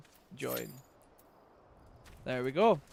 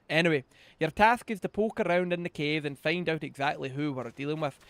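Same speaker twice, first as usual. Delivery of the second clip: gruff guard voice; 3 dB louder than usual. Acted. Voicing NPC guard dialogue.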